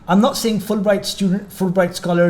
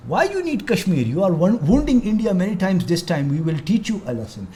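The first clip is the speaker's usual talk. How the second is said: bad Indian accent. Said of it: "that was a very bad Indian accent".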